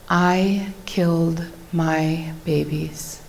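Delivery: slow, soft and grave; quiet confession. Real, not acted. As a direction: let the confession fall quietly. Confessing the hard truth aloud.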